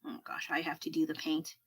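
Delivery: soft unvoiced murmur, busy with the drawing; whispered to herself. Real, not acted. To herself while drawing on stream, whispering.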